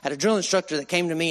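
usual speaking voice

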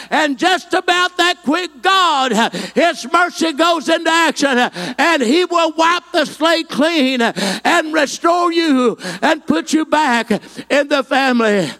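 rising, ringing pulpit voice; full-voiced revival preaching; preaching at full force. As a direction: preach it out over the congregation.

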